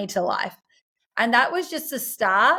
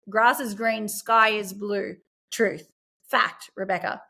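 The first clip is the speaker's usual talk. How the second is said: slow and deliberate; slower than usual. Shown as a demonstration. Spelling out absolute truth to herself.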